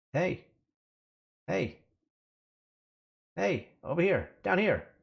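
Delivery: tiny, high, far-off calling voice. A game master voices someone calling to the players in the street, very soft, faint voice. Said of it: "a very soft, faint voice going".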